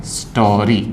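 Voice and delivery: स्टोरी with a clearly held ओ vowel; demonstrated vowel sound. Shown as a demonstration. Teacher tells students to pay attention, demonstrated vowel sound. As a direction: draw out the ओ in स्टोरी. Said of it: "आप ध्यान दें".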